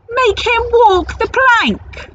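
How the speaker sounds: gleeful pirate demand. Acted. Pirates demand troll's punishment.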